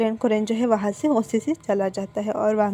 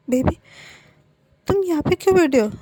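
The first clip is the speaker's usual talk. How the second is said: high, louder startled call; alarmed at finding him hiding; worried surprise; 7 semitones higher, 5 dB louder than usual. Acted. Husband finding his partner hiding, startled and worried. Wang finds Wing behind door.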